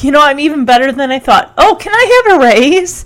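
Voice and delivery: lightly acted self-satisfaction, lifting high at the end; proud of herself. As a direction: play her pleased with herself. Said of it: "just so proud of herself".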